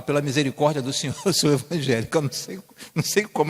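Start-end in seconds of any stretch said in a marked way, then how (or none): 0.0-2.2 mocking pious churchgoer. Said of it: "Existem pessoas que falam".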